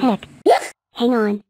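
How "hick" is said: single sharp hiccup. Acted. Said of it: "You got the hiccups".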